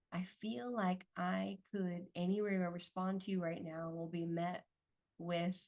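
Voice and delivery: gentle tone. Retold or imitated. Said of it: "he would say it in a gentle tone".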